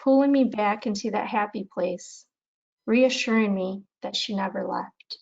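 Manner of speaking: measured recital with pauses between lines; unhurried poetry recitation, little drama; poem reading. Acted. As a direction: read your poem aloud, phrase by phrase. Reads own poem aloud.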